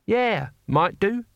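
drawn-out guarded yes; cautious concession. A narrator's reading. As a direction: agree warily, as if expecting a trick. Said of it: "Cohen conceded, in the cautious manner".

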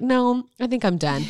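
fed up. Pretend. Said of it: "I would have been like".

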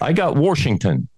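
Washington said as Warshington; I got Warshington, local style; Warshington pronunciation. Shown as a demonstration. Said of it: "Washington is what it, how they say it".

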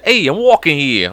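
put-on Italian-American wise guy voice; Italian guy accent. Retelling pool league clowning, Italian dude voice. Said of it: "straight to this Italian dude's voice".

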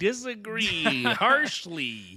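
laughing through the words; slow, giggling mock disagreement; breaking character giggling. Joke echo through laughter.

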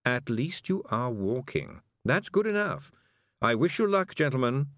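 a fussy toad wishing them luck. Acted. Toad answers Feegles.

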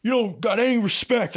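high, mocking whiny coworker voice. Coworker complaining he gets no respect, high and mocking. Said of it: "and he's like".

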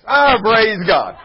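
slow, loud, high shout while laughing; shouted praise through laughter. Real, not acted.

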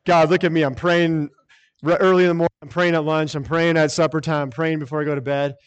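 a touch of smug, showy praying; mock self-righteous prayer. Preacher imitates a self-righteous man boasting to God, mild mockery. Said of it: "it's not this self-righteous thing".

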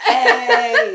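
loud, high laughing whoop; club cheer. Retold or imitated. Cheering the dancer on at a club, laughing whoop. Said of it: "I'd have been like".

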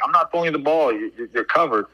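half-hearted yell, imitating the argument; retold yell. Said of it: "I'm yelling at him".

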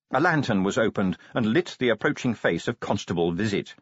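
ordinary delivery

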